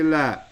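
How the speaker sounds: "la" with the vowel drawn out; "la" said long, as the negating word. Shown as a demonstration. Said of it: "You don't want to say".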